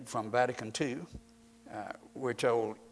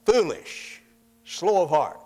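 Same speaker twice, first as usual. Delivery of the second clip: loud rebuke; 4 semitones higher, 10 dB louder than usual. Retold or imitated. Preacher repeats rebuke, forcefully.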